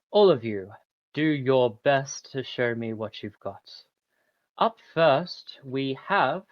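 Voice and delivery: lightly voiced tournament host; grand announcer. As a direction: proclaim to the crowd grandly. NPC announcer speech.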